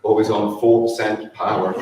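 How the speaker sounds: chuckling while listing fond memories; laughing through memories. Real, not acted. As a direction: laugh as the funny memories come.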